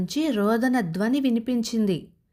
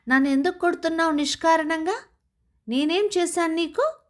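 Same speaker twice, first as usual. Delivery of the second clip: startled protest; 8 semitones higher, faster than usual. Acted. Lazy luck beaten awake.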